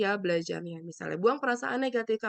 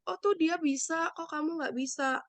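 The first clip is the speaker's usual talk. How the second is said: comparing parent; 4 semitones higher than usual. Retold or imitated. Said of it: "gitu misalkan gini membandingkan".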